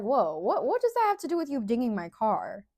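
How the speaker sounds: mock disbelief. Acted reply in the quarrel.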